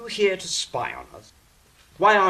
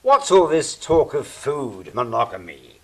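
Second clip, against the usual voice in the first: stern reproach; 5 dB louder than usual. Acted. Scolding talk of food.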